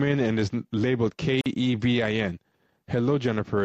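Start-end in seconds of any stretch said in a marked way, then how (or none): 2.9-3.6 flat mechanical robot voice; lightly voiced robot; robotic voice. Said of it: "it says in a robotic voice".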